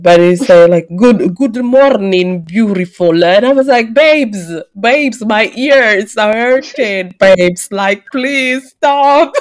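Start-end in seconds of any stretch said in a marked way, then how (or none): 1.0-3.2 put-on Italian accent. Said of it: "good morning with an Italian accent". 3.9-9.3 higher, drawn-out pleading, breaking into a laugh at the end; mock pleading. Acted pleading reply to contestant.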